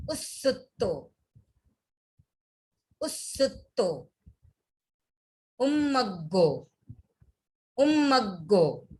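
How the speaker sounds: sutra from "इच्छामि" to "दुज्झाओ" said slowly, word by word with pauses; pronunciation demo. Shown as a demonstration. Teacher saying each sutra word twice for students, slow careful pronunciation. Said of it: "तो वापस देखते हैं एक बार".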